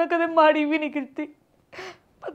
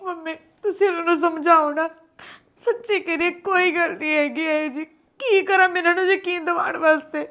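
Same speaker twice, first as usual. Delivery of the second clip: tearful plea; 5 dB quieter than usual. Acted. Daughter crying to mother.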